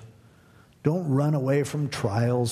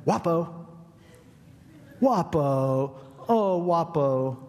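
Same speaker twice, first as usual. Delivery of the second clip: stranger calling out; 3 semitones higher, slower than usual. Retold or imitated. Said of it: "he starts going".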